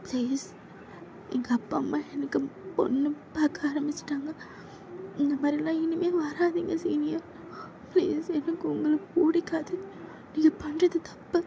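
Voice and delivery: put-on timid young woman begging him to stop; scared junior girl. Junior girl begging her senior to back off, high and timid.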